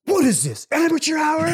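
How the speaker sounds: high, loud mock scolding; berating the wedding planner, hammed up; imitating haughty sister. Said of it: "And she goes".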